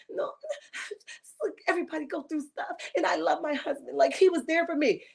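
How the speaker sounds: mocking her teary excuse; mock crocodile tears. Host mocks a housewife's fake-teary defense of her husband. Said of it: "crocodile tears and say".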